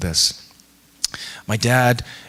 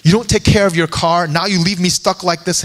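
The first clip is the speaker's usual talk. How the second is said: mock angry passenger; 6 semitones higher, 3 dB louder than usual. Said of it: "He's like".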